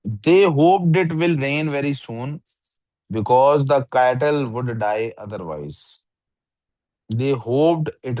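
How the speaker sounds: very slow, word-by-word test reading; slow trial reading. Shown as a demonstration. Teacher showing the student how to test a sentence, very slow. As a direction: drag each word out to test it. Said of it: "मैं इन sentences को ऐसे पढ़ता हूँ".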